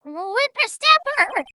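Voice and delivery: put-on loud, high, winded old lady; huff, then draw out the insult in outrage. Old lady who has been chasing the boy, huffing furiously. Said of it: "what a violent old lady".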